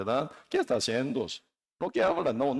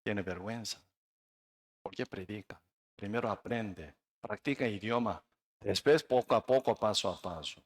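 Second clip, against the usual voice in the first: low, very quiet devil's counsel; 6 semitones lower, 6 dB quieter than usual. Acted. Devil discouraging the new preacher, low and hushed. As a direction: speak low and softly, as the tempter. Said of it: "Diablo dice".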